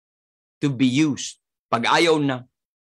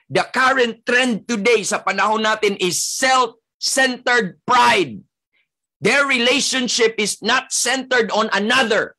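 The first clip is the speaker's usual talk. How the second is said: full-force preaching; 7 semitones higher than usual. Acted. Pastor warning his congregation about selfish pride, building preaching. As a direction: preach it with rising fire.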